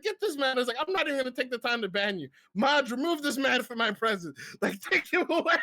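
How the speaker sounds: a streamer queen banishing a rude chatter; mock royal decree.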